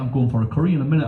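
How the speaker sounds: quick breezy explanation; fast chatty caller. Retold or imitated. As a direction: rattle it off casually. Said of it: "She went".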